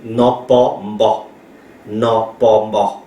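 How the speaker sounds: NON, PAS drawn out, then fused MBA; deliberate syllables ending on prenasalised MBA; slow blending demo. Shown as a demonstration. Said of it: "pas c'est P".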